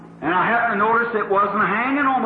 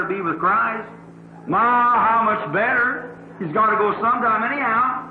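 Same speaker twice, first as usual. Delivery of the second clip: tender comfort; 2 semitones higher than usual. Retold or imitated. Preacher comforting a grieving old woman.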